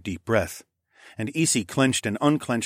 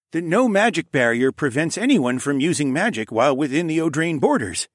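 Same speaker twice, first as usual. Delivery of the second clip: higher, louder voice of authority; explaining king; 7 semitones higher, 5 dB louder than usual. Acted. King explains barrier to visitors, authoritative. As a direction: lay out the law firmly.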